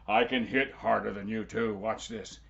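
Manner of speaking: boasting giant. Acted. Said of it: "The giant said".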